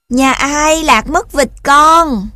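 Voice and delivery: high, slow horse's shout; loud neighing call. A narrator's reading. Horse asks who lost a duckling, loud neighing call. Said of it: "Ngựa cũng hí lên mà gọi lớn".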